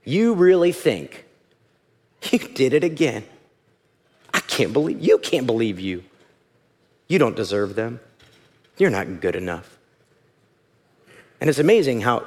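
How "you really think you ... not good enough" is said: low, disparaging inner voice; low, condemning voice in the head; accusing inner enemy. Acted. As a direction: put them down in a low voice. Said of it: "my enemy saying something like".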